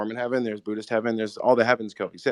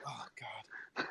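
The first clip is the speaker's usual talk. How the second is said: groaning; 20 dB quieter than usual. Retold or imitated. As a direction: groan it like a tired teammate. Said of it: "They're all grown every time he says it".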